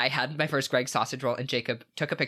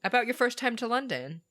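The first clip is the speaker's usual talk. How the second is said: excited; 11 semitones higher than usual. Real, not acted. Eager, excited pitch for emails.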